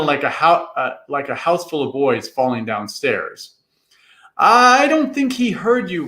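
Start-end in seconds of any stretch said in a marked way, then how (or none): 4.4-6.1 wry. A narrator's reading. Tom teasing while fleeing.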